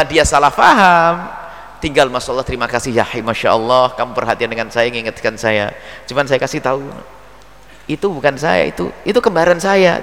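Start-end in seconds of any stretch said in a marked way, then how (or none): 2.1-10.0 gracious thanks. Retold or imitated. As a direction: thank them kindly, then joke it off. Gracious reply to a wrong rebuke.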